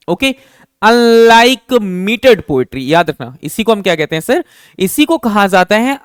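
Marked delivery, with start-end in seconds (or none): 0.8-2.8 slow dictation. Shown as a demonstration. Teacher dictating definition.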